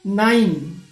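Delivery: नाइन said clearly as naayn, long i glide; नाइन, pronounced with the ai sound; say nine. Shown as a demonstration. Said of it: "नाइन देख लीजिए". (नाइन का साफ उच्चारण)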